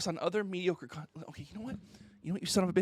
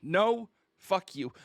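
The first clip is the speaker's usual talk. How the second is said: mock response; much slower than usual. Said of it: "His response".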